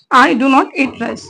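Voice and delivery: very slow, every word spaced out; slow dictation. Shown as a demonstration. Teacher modeling an English example for students, very slow. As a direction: spell the sentence out slowly for learners. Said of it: "teacher models example sentence".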